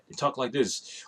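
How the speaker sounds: boring podcast voice. Retold or imitated. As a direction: imitate a boring podcaster, softly. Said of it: "They sound very boring".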